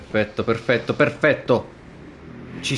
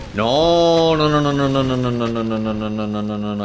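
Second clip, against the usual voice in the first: a despairing run of no that dies out; fading no no no; 4 dB louder than usual. Real, not acted. Disaster in game.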